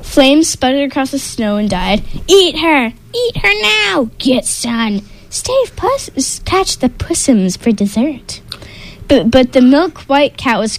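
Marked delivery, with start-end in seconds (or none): 2.3-8.4 high greedy troll shouting; high troll yelling; hungry trolls. Acted. Trolls demand eating.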